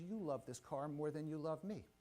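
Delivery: imitating a wife's controlled calm; composed, measured reproach; calm retold accusation. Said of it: "very calmly, just looks me in".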